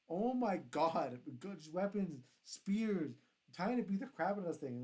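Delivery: excited gushing. Real, not acted. Raving about the big fight.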